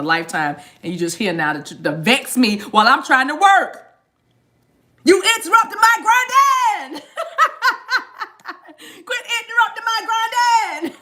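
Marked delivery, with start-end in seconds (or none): 5.0-11.0 laughing. Real, not acted. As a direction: laugh while you scold. Laughing at the interruption.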